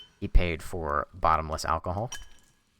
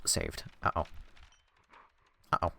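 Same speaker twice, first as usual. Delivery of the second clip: ordinary talk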